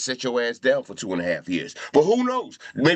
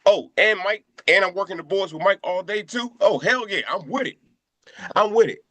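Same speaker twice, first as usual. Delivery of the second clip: starts much higher, giddy over the radio slot, then settles; retelling his own thrilled reaction, pitched up; excited; 4 semitones higher than usual. Retold or imitated. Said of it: "So I'm like".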